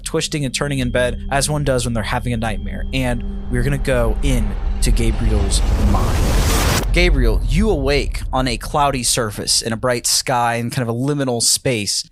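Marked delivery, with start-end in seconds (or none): 2.9-12.1 slow, weighty narration; measured storyteller delivery; game master's scene setting. Acted. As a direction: set the dream scene slowly, with weight. Game master opens dream scene.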